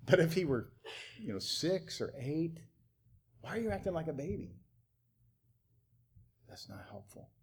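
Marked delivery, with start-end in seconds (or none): 3.4-4.6 higher, fast, softer mocking jab of Why are you acting like a baby; sarcastic berating. Parent belittling a six-year-old, sarcastic and fast. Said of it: "when it's said with sarcasm and an effort to berate". 6.5-7.3 breathy whisper of That's not helpful; whispered aside. Real, not acted. Pastor whispering a verdict to the congregation.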